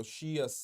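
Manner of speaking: "शियस" said clearly with sh, falling at the end; pronunciation demo. Shown as a demonstration. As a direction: model "शियस" as shi-us for students to copy. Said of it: "ऐसे pronounce करो".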